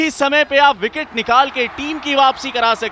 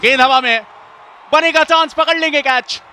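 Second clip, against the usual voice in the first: excited cricket commentary; 5 semitones higher, 3 dB louder than usual. Real, not acted. Ball in the air, catch.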